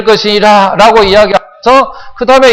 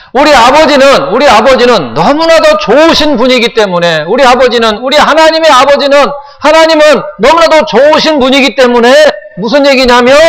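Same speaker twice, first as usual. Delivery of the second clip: higher-pitched, insistent sermon delivery; fervent preaching; 5 semitones higher than usual. Real, not acted. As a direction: press each phrase home to the congregation. Preacher heightens his exhortation. (열정적으로 높여 외치는 설교)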